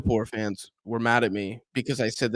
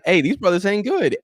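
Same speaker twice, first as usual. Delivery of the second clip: higher and louder, calling them out; louder mock call-out; 7 semitones higher, 5 dB louder than usual. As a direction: raise the voice and call it out bluntly. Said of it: "And I'm like".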